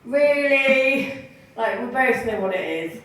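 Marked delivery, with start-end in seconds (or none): 0.1-1.1 incredulous really. Retold or imitated. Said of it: "And I'm like".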